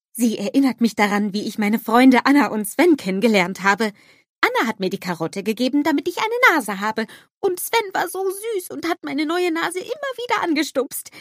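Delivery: high, loud eager snowman voice; bubbly cartoon snowman exclaiming; Olaf calling out. A narrator's reading.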